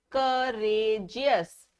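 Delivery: courageous drawn out slowly, each syllable apart. Shown as a demonstration. Teacher to children, slowly spelling out syllables. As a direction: stretch courageous out to count its syllables. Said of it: "three syllables".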